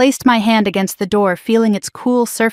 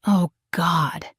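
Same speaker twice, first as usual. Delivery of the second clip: soft gasp; 3 semitones lower, 6 dB quieter than usual. A narrator's reading. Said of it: "gasped softly".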